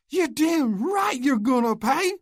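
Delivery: high, loud, slow bellow of rage. Acted. Oscar bellows vengeance at Luke, enraged. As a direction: bellow it, drawing each word out. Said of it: "Oscar bellowed".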